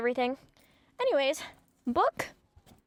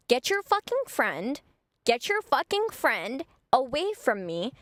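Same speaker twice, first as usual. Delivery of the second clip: retold confrontation, punching each word; indignant demand; 3 semitones higher, slower than usual. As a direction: tell off his friend, fed up. Acted angry confrontation with his friend.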